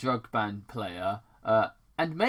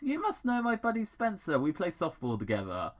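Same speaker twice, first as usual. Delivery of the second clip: hearty dad voice; 7 semitones higher, faster than usual. Acted. Tom's voice in retold scene.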